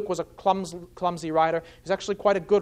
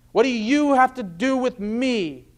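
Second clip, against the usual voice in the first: higher, confrontational challenge; imitated demon's defiant cry; loud outcry; 5 semitones higher than usual. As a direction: throw it out as a raised protest. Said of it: "cries out with a loud voice".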